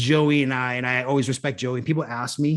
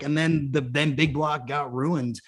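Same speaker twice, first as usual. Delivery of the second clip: ordinary talk, nothing marked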